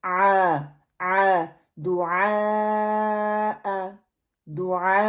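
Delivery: آ and دعا drawn out slowly; teacher stretching آ and دعا very slowly; slow ain then hamza. Shown as a demonstration. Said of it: "نیچے سے ہم نے اوپر".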